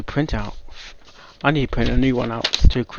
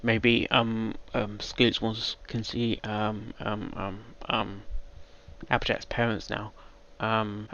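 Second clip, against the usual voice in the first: fading, shaken mumble; 3 semitones lower, 13 dB quieter, slower than usual. Real, not acted. Reactor trails off, shaken.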